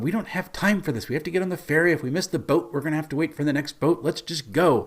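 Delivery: mock impatient pleading; impatient companions. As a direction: urge them along in a rising pitch. Party voiced as impatient, hurrying Pepper.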